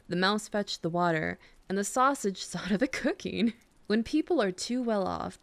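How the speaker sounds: soothing read-aloud of a fairy tale; bedtime story reading. Acted. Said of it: "try reading you a bedtime story".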